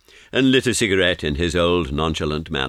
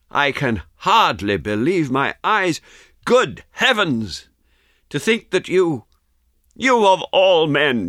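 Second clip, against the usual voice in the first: high, slow exclamation of astonishment; drawn-out, high-pitched incredulity; amazed disbelief; 8 semitones higher than usual. A narrator's reading. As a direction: marvel at a friend back from the dead. Amazed at friend's return from death.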